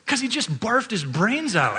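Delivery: high, slow, laughing through the words; can barely get it out for laughing. Real, not acted. Dad telling his son about the barfing, laughing.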